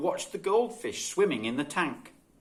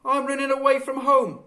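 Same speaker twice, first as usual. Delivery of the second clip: put-on high, earnest child announcing it; a small boy declaring he's off; child's voice; 11 semitones higher, 6 dB louder than usual. A narrator's reading. Child narrator voices himself.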